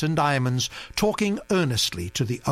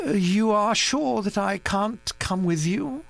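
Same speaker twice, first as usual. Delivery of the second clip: wistfully; 9 semitones higher than usual. A narrator's reading. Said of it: "he said wistfully".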